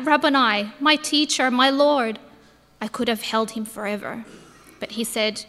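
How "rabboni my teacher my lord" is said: fervent cry of recognition; cried out. Acted. Mary at Jesus' feet, crying out to her teacher. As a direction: call out to him, overwhelmed. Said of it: "I fell at his feet and cried out".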